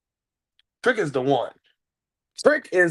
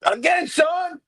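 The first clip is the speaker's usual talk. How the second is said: excited shout; 7 semitones higher, slower than usual. Real, not acted. Calling out to his co-host with a joyful shout. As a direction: shout his name in joy.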